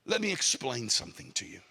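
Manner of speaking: low, softened comforting voice; gentle reassurance. Acted. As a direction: take him aside and explain it patiently. Jesus comforts the weeping man.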